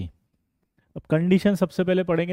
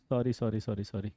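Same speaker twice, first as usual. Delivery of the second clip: soft, fading sorry after a slip; mock sheepish apology; 8 semitones lower, 11 dB quieter than usual. Teacher mock-apologizing to students after a slip, softly. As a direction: apologize under your breath, half joking.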